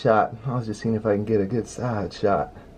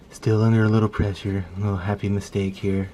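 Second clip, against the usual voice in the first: Bob Ross voice. Pretend. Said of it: "start talking like Bob Ross".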